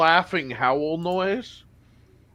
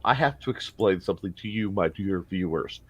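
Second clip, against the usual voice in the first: mock presenter voice; 10 semitones lower, 7 dB quieter than usual. GM mock-addresses viewers.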